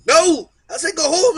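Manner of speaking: loud, flat no and go home; loud refusal. Retold or imitated. Brother on the phone refusing a ride, loud and flat. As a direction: shut him down hard.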